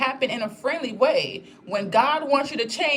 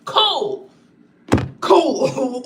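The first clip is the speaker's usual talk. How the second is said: light, airy cool, said brightly; mock casual cool; 3 semitones higher, 7 dB louder than usual. Telling followers about the gym, breezy cool. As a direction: breeze through it like nothing's wrong.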